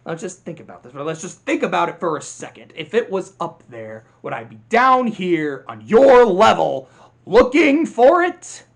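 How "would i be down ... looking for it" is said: slow rising loud rant; villain blowing up at the ants; Hopper yelling. Retold or imitated. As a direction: build into a mocking shout. Hopper ranting in the quote.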